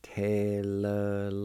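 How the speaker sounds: Te-le-la-ti slowly, syllables stretched and linked; slow pronunciation demo. Shown as a demonstration. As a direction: stretch out Te-le-la-ti evenly. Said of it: "is pronounced like this".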